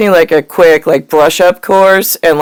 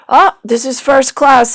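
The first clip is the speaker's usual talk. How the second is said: higher, louder, showy lemur king voice; snooty movie lemur; 7 semitones higher, 3 dB louder than usual. Retold or imitated. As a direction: lightly play the pompous lemur king. Quoting King Julian from Madagascar.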